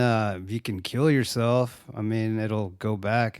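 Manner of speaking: slow, lazy stoner. Retold or imitated. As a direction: casually suggest it, stoner-style. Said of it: "sounds like a stoner".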